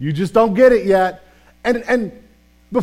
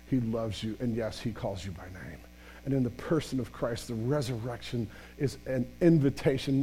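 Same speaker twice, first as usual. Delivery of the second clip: hushed preaching; 10 semitones lower, 15 dB quieter than usual. Real, not acted. Pastor to Easter congregation, hushed and intimate. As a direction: draw the room in close and tender.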